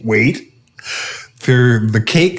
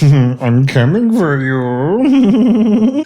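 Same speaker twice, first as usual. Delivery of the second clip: mock menace; 5 semitones higher, much slower than usual. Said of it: "And Hans is like".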